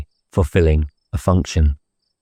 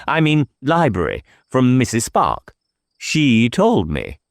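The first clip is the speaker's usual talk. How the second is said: put-on lightly higher, fussy old vicar; eccentric vicar; 5 semitones higher than usual. Vicar fencing with the inspector over the murder, lightly higher and coy. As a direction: play the Reverend coy and evasive. Reverend voiced by narrator.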